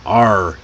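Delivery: R held as a strong growled 'er' sound; American R. Shown as a demonstration. Teacher modelling the post-vocalic R, American R. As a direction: curl the tongue back and hold the R. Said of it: "work on those R sounds".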